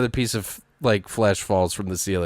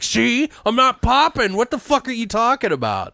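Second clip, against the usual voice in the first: mock indignant; 11 semitones higher than usual. The coworker proving the meat is safe, high and scoffing. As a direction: scoff it off, cocky and defiant.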